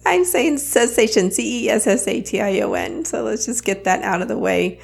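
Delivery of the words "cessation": "cessation" enunciated with a clear "sess" at the start; clarifying pronunciation. Shown as a demonstration. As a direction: say "cessation" carefully so it can't be heard as "sensation". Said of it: "feel like I'm saying sensation instead of".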